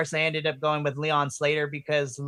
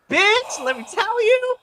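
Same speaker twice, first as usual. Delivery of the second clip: excited gush; 5 dB louder than usual. Real, not acted. Gushing about match of night.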